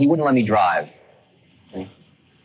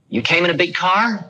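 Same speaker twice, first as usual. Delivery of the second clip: put-on old guru voice; 7 semitones higher than usual. Old man quoted asking.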